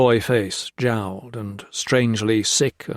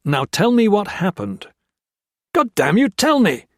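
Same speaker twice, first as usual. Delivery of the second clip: high, loud furious bellow; 9 semitones higher, 4 dB louder than usual. Acted. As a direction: roar the demand at him. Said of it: "Jones bellowed".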